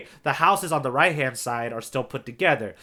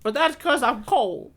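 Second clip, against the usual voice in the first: higher, slow put-on older voice; sounding older; 8 semitones higher, slower than usual. Cohost explaining his odd voice, a mock older man's voice. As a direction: play it like a creaky old man, lightly. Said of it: "I may sound older".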